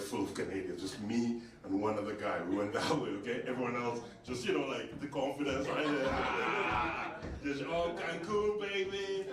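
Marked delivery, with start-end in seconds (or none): 6.1-9.2 breezy, cocky holiday voice, pitch climbing; carefree tourist. Retold or imitated. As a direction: swagger like you're off to Cancun. Confident Canadians at immigration.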